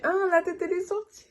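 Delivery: high surprised hein; disbelief. Retold or imitated. Mother hearing the head is out, high and amazed.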